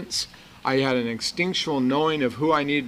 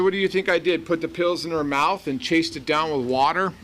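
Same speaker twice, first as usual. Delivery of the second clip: arrogant retort; 4 semitones higher than usual. Retold or imitated. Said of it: "And I was really arrogant".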